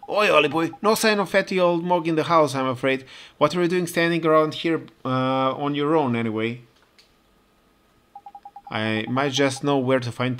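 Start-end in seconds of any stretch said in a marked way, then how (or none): 0.1-6.6 a lightly voiced chirpy cockney bloke, higher, greet him like a cheeky London local with "Oi"; cockney local hailing Ollie in the street, cheeky; cockney townsman.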